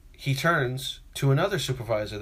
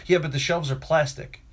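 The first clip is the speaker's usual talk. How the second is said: standing my ground; 2 semitones higher than usual. Retold or imitated. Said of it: "standing my ground sort of way".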